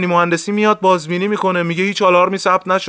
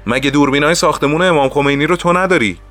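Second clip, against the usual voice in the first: higher-pitched, mildly raised interrogation; raised-voice questioning; 6 semitones higher, 3 dB louder, faster than usual. A narrator's reading. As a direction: demand an answer from a subordinate. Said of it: "با صدای بلند پرسید". (پرسش با صدای بلند)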